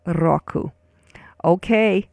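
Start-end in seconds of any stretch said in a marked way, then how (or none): 0.1-0.7 "Roku" with a trilled R, RO-ku; rolled R. Shown as a demonstration. Teacher says it once more, "Roku" with rolled R. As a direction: repeat "Roku" for learners, rolling the R. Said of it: "Say it once more".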